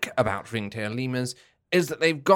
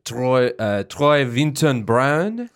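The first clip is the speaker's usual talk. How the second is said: put-on stereotypical French accent; 4 dB louder than usual. A podcaster asked for French introduces himself and his favourite primate in a stereotypical French accent. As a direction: play the cartoon Frenchman introducing himself, lightly. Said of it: "can you give me French?".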